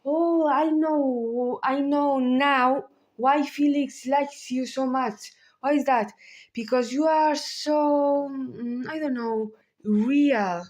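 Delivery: put-on gushing young woman. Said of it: "When Vinicius tells Oliver".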